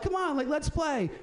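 high, slow playful dog voice; cute dog voice. Pretend. The little Shih Tzu inviting the lab, high and playful. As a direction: coax it sweetly like a tiny dog. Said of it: "she's like".

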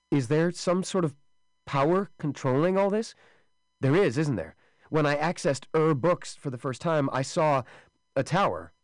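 high, urgent, loud pleading. Acted. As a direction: press the question high. Wesley pressing, frightened.

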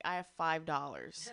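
laughs through the words; a broke, half-laughing confession. Retold or imitated. Telling vet he has no money.

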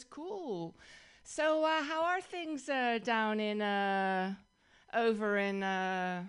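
lightly imitated casual guy groping for a place; hesitant, drawn-out small talk with filler pauses; clueless store guy. Furniture store guy guessing where Dutch is from, hesitant imitation. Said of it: "And he goes".

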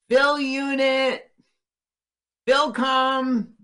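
high, slow robotic call; calling out like a search robot. Acted. Robot calling out for lost Phil, high and slow.

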